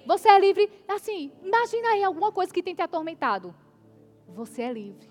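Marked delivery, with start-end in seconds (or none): 0.1-0.7 loud declaration of freedom; louder, ringing proclamation; proclaiming. Acted. 4.3-5.1 much softer and lower; quiet, lower reassurance to each listener; hushed declaration. Acted. Preacher proclaiming freedom.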